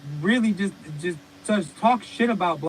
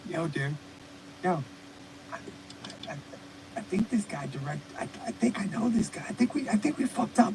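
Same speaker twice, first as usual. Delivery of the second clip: scared cop; 3 semitones lower, 10 dB quieter than usual. Retold or imitated. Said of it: "And the guy's like".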